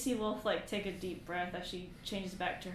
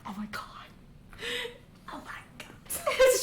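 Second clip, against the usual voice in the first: shocked; 7 dB louder than usual. Acted. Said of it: "Shar's like".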